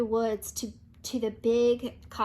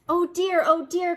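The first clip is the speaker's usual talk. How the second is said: higher, louder, flustered oh dear; fretful cry; 5 semitones higher, 6 dB louder than usual. A narrator's reading. Pig jumps into hippo's arms, fretting loudly. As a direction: wring your hands and fret aloud. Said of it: "cried Pig".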